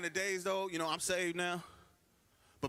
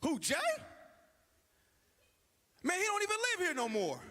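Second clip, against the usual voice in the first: in character; 12 semitones higher than usual. Shown as a demonstration. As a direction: act it out like the one big line on set. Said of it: "let me get in character".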